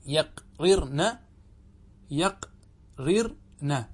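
يقررن very slowly as yaq, rir, na; slow-motion يقررن, showing the doubled r; full form, both r's. Shown as a demonstration. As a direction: sound out each syllable of يقررن with long breaks. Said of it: "عندنا راءان وراء مكسورة".

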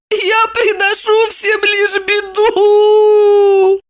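high keening woman's lament; bitter wailing. A narrator's reading. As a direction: wail it out in despair. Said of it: "Горько заплакала Евдокия".

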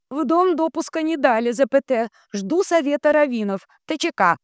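very high chanting relay; high-pitched transmitter echo; entranced telegraph operator. A narrator's reading. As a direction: intone text and punctuation up high. Dunya echoes the telegram.

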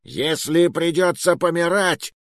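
high-pitched, obliging explanation; mock-courteous. A narrator's reading. Doomed man kindly explaining his spite, courteous. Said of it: "любезно пояснил Муруа".

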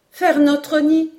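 put-on high, loud, drawn-out boyish cry; slow, excited exclamation way up high; exclaiming. A narrator's reading. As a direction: echo it back in high-pitched amazement. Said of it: "s'écria Robert".

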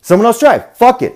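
angry yelling at the passengers; retold blow-up. Driver yelling at chattering passengers, furious. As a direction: snap at them to shut up, voice climbing high and loud. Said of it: "And I just blew up".

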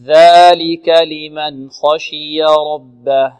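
slow, drawn-out chanted recitation; Quran recitation. Shown as a demonstration. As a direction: recite it slowly with tajweed. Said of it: "teacher models recitation". (ترتيل بطيء)

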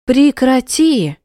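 put-on high, slow, furious shout at a crying child; sharp shout. Mother snapping at her crying daughter, shouting. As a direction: bark it out, furious and loud. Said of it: "прикрикнула она".

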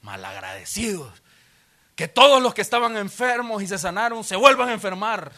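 half-joking furious yell; mock angry shout. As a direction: hurl "Malagradecidos" as a mock curse. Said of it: "yo les hubiera gritado".

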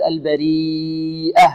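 البريئة slow, long ee, audible H at the end; clear final H. Shown as a demonstration. Teacher demonstrating البريئة, slow with clear final H. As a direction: hold the ee in البريئة and release a clear H. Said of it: "نوضحها".

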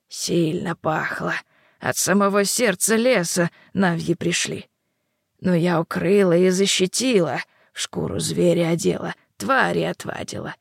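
put-on old hag. Yaga explains the wolf.

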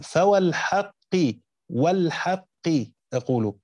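فوالحق said with an added wa, as an oath; oath waw restored. Shown as a demonstration. Teacher spelling out the hidden oath for students, measured recital. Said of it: "كأن الواو القسم محذوفة".

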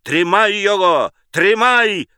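cracked, angry man's cry; malicious, tearful yell; spiteful, whiny shout. A narrator's reading. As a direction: raise the pitch in a spiteful wail. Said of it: "закричал мужской, натреснутый и злобный, и плаксивый голос".

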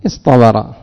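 اصطبر said firmly with emphatic ط; demo answer. Shown as a demonstration. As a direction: give the answer اصطبر clearly. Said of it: "فنقول ماذا".

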